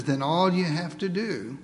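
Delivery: lightly voiced Lord, sinking low and soft; grave instruction, fading to very quiet; words of the Lord. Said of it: "looks directly into our eyes and says".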